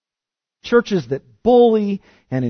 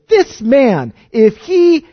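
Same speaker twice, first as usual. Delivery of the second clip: higher, louder scornful Pharisee voice; sneering leaders; 6 semitones higher, 7 dB louder than usual. Retold or imitated. Preacher mocking leaders who judge the weeping woman, scornful and loud. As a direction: mimic the sneering religious leaders. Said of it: "The leaders stand there and they say".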